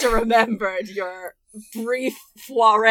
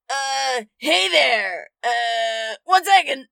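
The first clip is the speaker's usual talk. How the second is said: flustered character voice; 3 semitones higher, slower than usual. Acted. Voiced character behind door.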